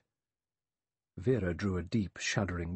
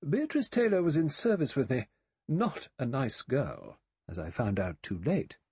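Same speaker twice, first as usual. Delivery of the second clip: put-on composed older woman, pitched up; serene; 6 semitones higher than usual. A narrator's reading. Miss Brent telling Vera about her former maid, serene. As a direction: recount it with untroubled certainty. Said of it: "Miss Brent continued serenely".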